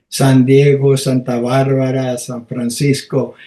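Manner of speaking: San Diego, Santa Barbara, San Francisco with Spanish sounds; Spanish pronunciation. Retold or imitated. Pupil reading map names to class, correct Spanish pronunciation. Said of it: "pronounce them correctly".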